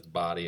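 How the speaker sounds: "Body" said like the word for one's own body; pronunciation of Bodie. Shown as a demonstration. Runner explaining the lighthouse's name, "Body" said like body. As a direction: say "Body" to rhyme with shoddy. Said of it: "like your own body".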